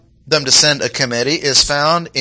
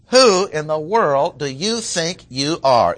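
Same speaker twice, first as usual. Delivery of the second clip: slow, cutting challenge; haughty, cutting; 3 semitones higher, slower than usual. Shown as a demonstration. Preacher voicing the Jerusalem priests' cutting challenge. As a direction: cut him down with the question. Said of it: "It is meant to be haughty".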